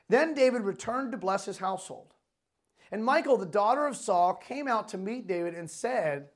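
animated, emphatic Bible reading; proclaimed scripture, phrase by phrase. A narrator's reading. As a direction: read the verses out with preacher's emphasis. Reads scripture aloud to congregation.

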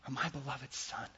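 soft, slow, hushed affirmation; quiet proud father speaking to his son; tender fatherly voice. Retold or imitated. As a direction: say it gently to a beloved son. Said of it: "He says to Jesus".

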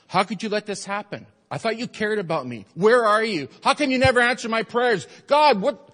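building from hurt questions to a loud, high outburst; angry complaint to God. Shown as a demonstration. Pastor voicing a believer blaming God, building to a loud outburst. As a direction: rail at God, rising to a shout. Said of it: "We're more apt to say".

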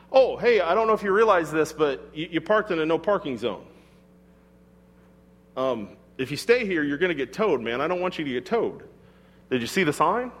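friendly heads-up. Retold or imitated. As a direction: gently warn a stranger he'll be towed. Friendly heads-up to a parked driver.

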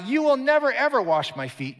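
high loud never; protesting. Acted. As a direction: refuse him, voice jumping up on never. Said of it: "He protested".

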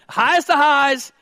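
highest of highs sung out high and loud; exclaimed high. Real, not acted. Preacher to parents, soaring exclaim. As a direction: lift it up like a joyful peak.

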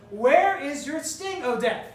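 slow, drawn-out taunt at death; defiant sermon taunt, slow and forceful; taunting challenge. Acted. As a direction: dare death to answer. Preacher challenges death directly.

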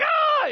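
very high loud scream; mock scream. Everyone fleeing the naked demon guy, a hammed-up scream. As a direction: shriek in panic. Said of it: "Everyone's like".

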